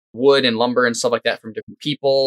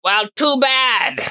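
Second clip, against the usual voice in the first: slow, high, mocking brush-off; dismissive refusal; 11 semitones higher, much slower than usual. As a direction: drag it out, unimpressed. Monk refuses player again.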